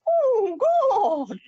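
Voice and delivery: very high, wailing cartoon villain groan; exaggerated squealing alien moan; Krang. Guest showing the actor how his stand-in sounded, high wailing impression. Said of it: "'cause he sounded like this".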